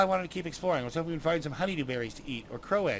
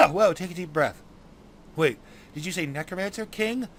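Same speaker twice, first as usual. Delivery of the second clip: chirpy fairy; 3 semitones higher than usual. Acted. Fairy offers dwarf a ride.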